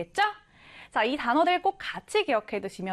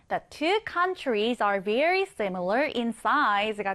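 slow example reading; 3 semitones lower, much slower than usual. Shown as a demonstration. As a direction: read the sentence very slowly. Reads example sentence slowly. (천천히 또박또박 예문 읽기)

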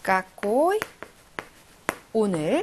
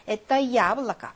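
stressed 야 in 야블라카, said as a full 'ya'; slow 에따 야블라카 with the stress on 야. Shown as a demonstration. Teacher reading the Russian example aloud, stress on 야 in 야블라카. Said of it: "야의 강세가 있으니까".

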